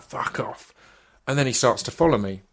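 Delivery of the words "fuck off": under-the-breath curse; muttered fuck off. Retold or imitated. Teen driver cursing to himself, whispered. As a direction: whisper the swear to yourself in the car. Muttering insult in car alone.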